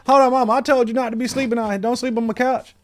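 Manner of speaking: high, loud, fast scolding of mom; mock outraged yelling. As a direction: shout it at mom in disbelief. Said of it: "I open, she".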